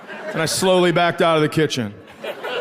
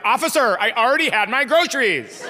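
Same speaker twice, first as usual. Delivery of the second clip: protesting driver; 5 semitones higher than usual. Pretend. Mock excuse to officer after crash.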